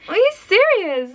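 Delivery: high, exclaimed disbelief; acted astonishment, pitch shooting up; can't believe the compliment; incredulous.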